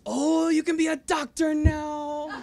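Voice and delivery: high, loud, slow and cracking with laughter; can barely get the words out for laughing; laughing through the quote. Retold or imitated. Quoting grandmother's career suggestion while laughing hard, high and loud.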